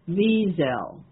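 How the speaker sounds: "Wiesel" with even stress on both syllables and a Z sound, VEE-zel; equal-stress pronunciation. Shown as a demonstration. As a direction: land on both halves of "Wiesel" equally, S softened to a Z. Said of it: "the accent is equal on both syllables".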